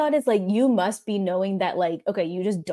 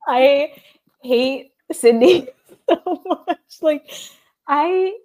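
high, loud, laughing rant; heated, laughing; 7 semitones higher, 5 dB louder, slower than usual. Real, not acted. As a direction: vent through a laugh. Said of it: "I got so heated".

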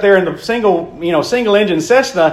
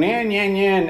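mock tantrum whine; 4 semitones higher, 4 dB quieter, slower than usual. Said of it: "throw a fit and".

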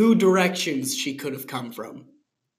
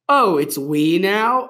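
sarcastic; 3 semitones higher, 6 dB louder, slower than usual. Acted. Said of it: "I asked".

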